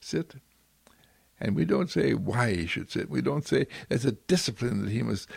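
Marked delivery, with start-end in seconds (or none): 0.0-0.4 soft whispered Sit to the dog; a gentle whispered order to a pet; whispered command. Pretend. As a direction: breathe the word to the dog. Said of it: "we say to our dog".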